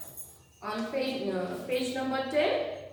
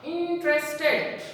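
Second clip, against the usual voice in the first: slow modelling; slower than usual. Shown as a demonstration. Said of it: "Here it is also long word".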